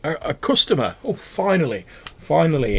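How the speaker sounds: high, loud, delighted merchant voice; excited rat-faced trader; eager goblin shopkeeper. Acted. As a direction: greet the first customer in ages. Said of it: "he's like".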